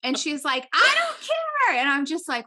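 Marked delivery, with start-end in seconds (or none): 0.7-1.8 very high, loud, stretched-out retort; mock defiant yell. Drunk wife answering her fed-up husband, mock defiant yell. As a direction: imitate a friend hollering it slowly, pitched way up.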